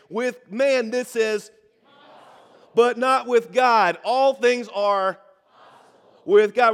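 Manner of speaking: loud, slow, emphatic declaration; like you mean it. Shown as a demonstration. Pastor leads the congregation in a recitation, loud and emphatic. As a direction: proclaim every word with full conviction. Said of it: "I want you to say it like you mean it".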